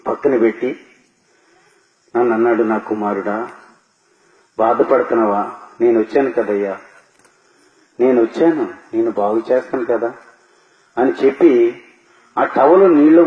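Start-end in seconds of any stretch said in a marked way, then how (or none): 2.6-10.1 softer and lower, tenderly reassuring a suffering son; gentle comforting voice. Retold or imitated. God soothing the dying narrator at his bedside, soft and tender. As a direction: hush the voice like soothing a sick child.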